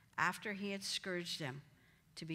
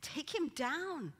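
firm command; 9 semitones higher, 5 dB louder, slower than usual. Pretend. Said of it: "go over to that cross and say".

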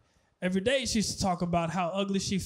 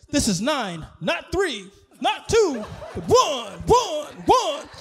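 exaggerated emphasis, louder on the last numbers; exasperated correction; 4 semitones higher, 4 dB louder, slower than usual. Operator correcting a caller's dialling, exasperated emphasis. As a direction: count it off with each number punched.

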